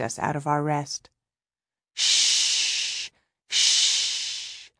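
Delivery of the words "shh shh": put-on whispered shh to calm a child; shushing. A narrator's reading. Soothing a sobbing child.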